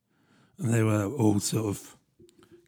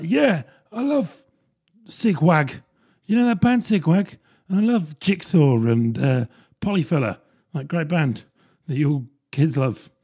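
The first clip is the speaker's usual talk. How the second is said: put-on out-of-touch older guy; 4 semitones higher than usual. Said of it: "but he's like".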